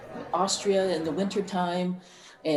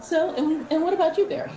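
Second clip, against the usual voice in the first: laughing; 10 semitones higher, 4 dB louder than usual. Real, not acted. Handing turn to Barry, laughing.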